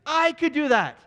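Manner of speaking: mock the commentator's worthless talk; indignant rant. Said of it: "She says".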